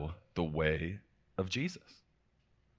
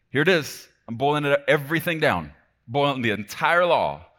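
loud, raised preaching voice; emphatic announcement; 6 semitones higher, 7 dB louder than usual. Acted. Preacher voicing Jesus boiling down the law, loud and emphatic. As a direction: announce the big summary with force.

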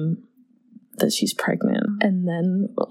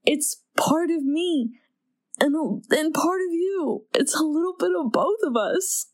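tender quote; 6 semitones higher than usual. Retold or imitated. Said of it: "He says".

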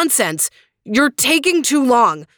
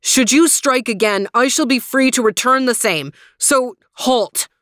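much higher, louder commanding cry; crying halt; 4 semitones higher, 4 dB louder than usual. Acted. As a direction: order him to stop at once. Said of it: "and cried".

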